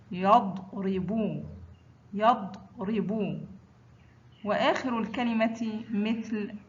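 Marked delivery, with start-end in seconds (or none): 0.1-3.4 يضرب drawn out, held apart after the closed يض; sukun mid-word. Shown as a demonstration. Teacher models ḍad mid-word, يضرب slow and split after يض. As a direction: say يضرب slowly, stopping on the vowelless ض. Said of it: "وسط الكلمة مثل".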